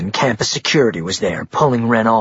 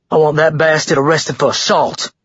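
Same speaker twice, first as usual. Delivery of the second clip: higher, angry demand; indignant snarl, pitched up; 5 semitones higher, 3 dB louder than usual. A narrator's reading. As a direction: snarl it like an outraged bully. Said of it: "Blaine snarled".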